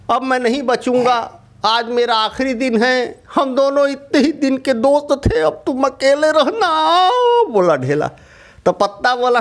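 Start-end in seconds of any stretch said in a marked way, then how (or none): 0.1-7.1 tearful farewell. Acted. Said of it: "ढेला रोने लगा".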